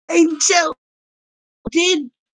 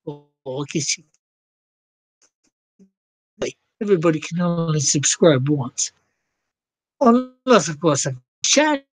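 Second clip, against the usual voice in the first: put-on Aussie accent. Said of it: "I don't know why I'm doing this accent".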